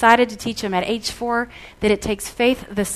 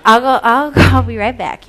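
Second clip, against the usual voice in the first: eager to please; 2 semitones higher, 13 dB louder than usual. Retold or imitated. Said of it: "So I'm like".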